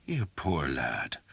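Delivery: slow, gentle sympathy; tender pity. Acted. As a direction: comfort the hurt boy. Priest tends the beaten lad.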